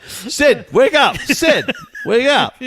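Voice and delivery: high-pitched mock alarm; acted urgent call. To a coworker who passed out, in mock alarm. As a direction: call out comically to rouse him. Acting out rousing a fainted coworker.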